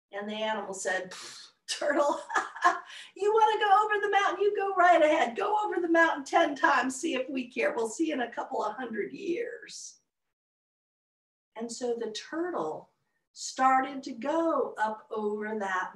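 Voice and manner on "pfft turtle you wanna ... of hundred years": scoffing. Acted. Animals scoff at the turtle.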